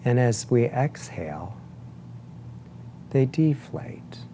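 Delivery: unhurried meditation guide, long pauses between phrases; guided meditation. Acted. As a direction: guide them gently into breath awareness, leaving space after each phrase. Leads a breathing meditation.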